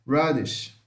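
radish ending in a clear sh sound. Shown as a demonstration. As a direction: say radish with the final sh like Portuguese X. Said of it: "é como se fosse um X".

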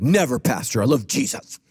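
low, punchy put-on protest; mock pious denial. Congregant protesting innocence to the pastor, mock pious denial. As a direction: deny it in a hammed-up deep voice.

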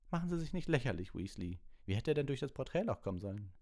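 high, loud scolding; stern professor. A narrator's reading. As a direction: dismiss it sharply as nonsense.

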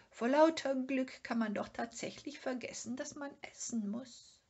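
lightly voiced little animal full of joy; happy Sniff. Sniff notices his hunger after the joy of the find.

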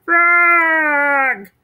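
high, loud cry; cried out. Acted. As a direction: call out to your friend. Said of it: "cried Toad".

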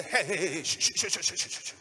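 loud heys dissolving into rapid shushes; crowd's insistent repeated shh; shushing. Acted. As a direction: hush a noisy man urgently. Crowd hushing the shouting beggar.

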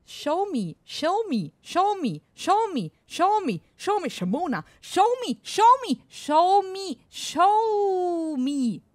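hammed-up snooty Englishman repeating the command; posh English. Shown as a demonstration. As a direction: chant it snootily, building up. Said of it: "Sehr englisch und eingebildet".

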